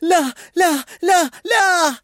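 high, loud repeated no's; punchy, high-pitched wail of refusal; loud protest. Acted. Character protests at story's start.

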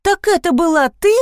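high, gasped realisation; gasping surprise. Acted. Heroine realises the robed intruder was Liza, gasping. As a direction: gasp out the discovery. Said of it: "ахнула я".

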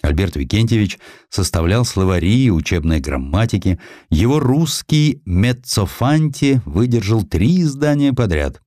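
plain reading voice

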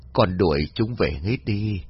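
put-on ghosts luring the girl up; eerie parent voices. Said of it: "giọng của đàn ông". (giọng ma gọi con, chậm, nhỏ)

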